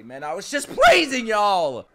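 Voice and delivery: loud, high, laughing protest; laughing shout. Real, not acted. Viewer cut off mid-praise, laughing and shouting. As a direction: yell it through a laugh. Show interrupts his praise.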